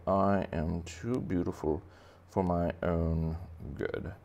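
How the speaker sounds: lightly voiced vain fish, slow; snooty angelfish. Angelfish declaring himself too beautiful, mildly snooty. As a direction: draw it out with mild self-admiration. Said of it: "I am a little bit snooty".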